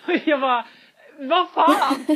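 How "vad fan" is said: loud, laughing what the hell; laughing disbelief. Retold or imitated. Ser kompisen köpa Toblerone. (skrattande förvåning)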